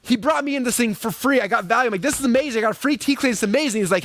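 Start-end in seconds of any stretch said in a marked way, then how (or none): 2.0-3.8 gushing delight. Retold or imitated. Thrilled by free cleaning.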